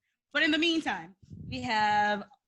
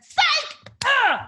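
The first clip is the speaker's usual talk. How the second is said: much higher, loud taunting jeer; mocking psych; 13 semitones higher, 8 dB louder than usual. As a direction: sneer it like a traitor gloating. Mocking Murphy's betrayal.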